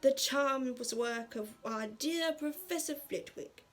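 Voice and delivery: headmaster's formal feast announcement; Dumbledore. Acted. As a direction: address the hall ceremoniously, drawing out the ending. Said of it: "Dumbledore stood up to announce the feast".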